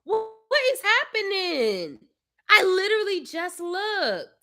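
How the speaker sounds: high, slow disbelieving complaint; exasperated disbelief. Real, not acted. Mother complaining to viewers about the soaked iPad, exasperated. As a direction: stretch out the disbelief.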